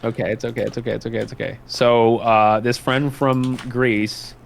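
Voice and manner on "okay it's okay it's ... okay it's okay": reassuring. Real, not acted. Reassures after an apology.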